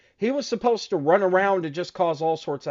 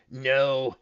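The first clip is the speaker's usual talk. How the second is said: hammed-up djinn, climbing higher and higher; protesting djinn; 4 semitones higher, slower than usual. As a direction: draw out the words in a mock-dramatic genie voice. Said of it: "the Djinn starts walking away backwards like".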